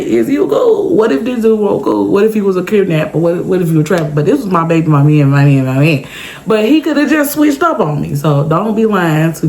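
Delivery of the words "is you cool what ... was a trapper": mocking worried teen. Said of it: "Y'all know how y'all like to say".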